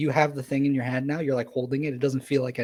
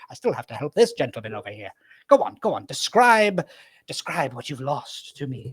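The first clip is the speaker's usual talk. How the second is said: brisk and busy, coaxing; old wizard. Acted. Wizard turning to the gentleman, coaxing him to describe. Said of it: "and he goes".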